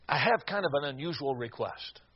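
subdued, careful asking; hesitant request. Retold or imitated. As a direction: ask it gently, as a delicate favour. Hesitant father asks a delicate favour.

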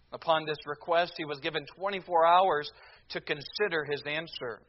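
usual speaking voice

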